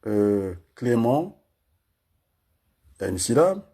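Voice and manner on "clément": slow, syllables pulled apart. Shown as a demonstration. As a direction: say the name slowly, one syllable at a time. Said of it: "Je vais aller par syllabe".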